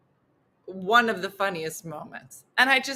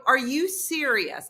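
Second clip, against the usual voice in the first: slow, higher retold challenge; incredulous; 4 semitones higher than usual. Woman challenging her partner in the foyer, incredulous. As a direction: draw out the disbelieving question.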